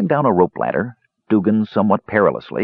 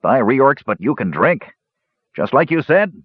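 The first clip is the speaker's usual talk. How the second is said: higher-pitched dwarf holding forth; solemn dwarf declaration in a raised pitch; 6 semitones higher than usual. A narrator's reading. Dwarf telling the lads about the drinking, solemn. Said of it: "he said solemnly".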